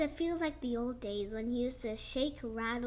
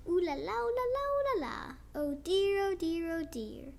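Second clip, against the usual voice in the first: granddad sighing; 3 semitones higher, faster than usual. Acted. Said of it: "Granddad whispers".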